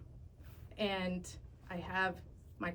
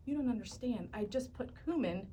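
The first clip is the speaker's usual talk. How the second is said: panicked pleading; 3 semitones higher than usual. Retold or imitated. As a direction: blurt it out in a half-laughing panic. Panicked plea to fake deputy.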